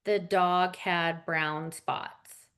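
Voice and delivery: slow, low, dull, lifeless reading; flat monotone read. Shown as a demonstration. Speaker demoing a dull read to a four-year-old, flat monotone. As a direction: read it like you're bored to tears. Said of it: "are you just gonna read it like this?".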